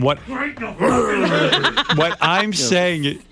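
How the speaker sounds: laughing. Real, not acted. The speaker laughing, trying to talk.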